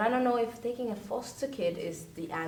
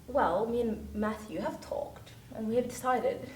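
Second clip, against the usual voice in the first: Marilla voice. Retold or imitated. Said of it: "this is my Marilla accent".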